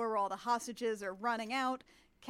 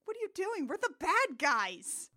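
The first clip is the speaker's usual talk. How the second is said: imitating DJ; 7 semitones higher, 4 dB louder than usual. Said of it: "D J is like".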